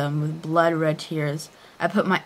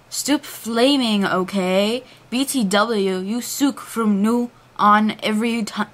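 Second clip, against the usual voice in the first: slow, whiny emo author voice; hammy stage actor; 2 semitones higher, slower than usual. Acted. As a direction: whine it like an angsty teen. Reading author's note dramatically.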